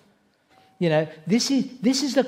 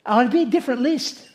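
mock Satan list; 7 semitones higher than usual.

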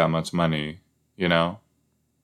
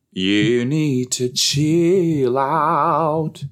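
mock scolding; 6 semitones higher, 4 dB louder, much slower than usual. Scolding game character.

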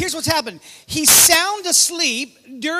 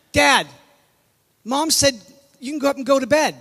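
put-on louder kid relaying a message; lightly voiced child; 3 dB louder, faster than usual. Child passing on Mom's message to napping dad, lightly acted.

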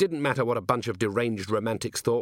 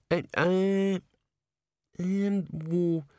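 higher, hesitant, nervous little corporal; raised wheedling voice, full of ums; Nobby; 9 semitones higher, much slower than usual. A narrator's reading. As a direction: stammer it out like a nervous underling. Nobby stalling.

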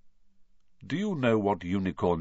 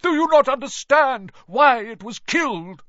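higher, louder impassioned defiance; defiant shout; 10 semitones higher, 5 dB louder than usual. A narrator's reading. Firenze defies Bane before riding off, impassioned shout. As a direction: throw the challenge back at him.

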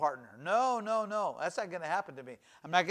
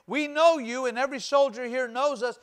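put-on higher, scornful taunting of a kid brother; mocking brother; 3 semitones higher than usual. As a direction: sneer him away like a pest. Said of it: "David's brother even mocked him".

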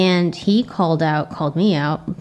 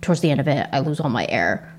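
low voice running out of air, softer to the end; airless low voice; 2 semitones lower, 4 dB quieter than usual. Shown as a demonstration. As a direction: let the breath run out as you finish. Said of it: "I would talk like this".

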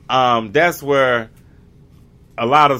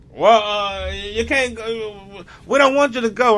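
slave master; 10 semitones higher than usual. Retold or imitated. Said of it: "them same people were like".

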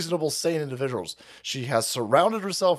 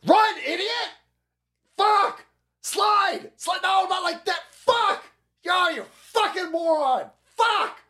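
screaming coach; slower than usual. Retold or imitated. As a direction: scream it like an enraged Little League coach. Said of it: "my coach was like".

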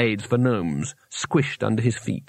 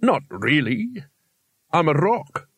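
very slow, drawn-out creature voice; talking rock; 3 semitones higher, slower than usual. Acted. Rock sets Rincewind straight about trees, very slow voice. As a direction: drag each word out, stonily matter-of-fact.

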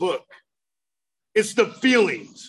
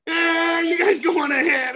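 higher, offhand brush-off; dismissive wave-off; 6 semitones higher than usual. Retold or imitated. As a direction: shrug them away. Dismissive reply from cave.

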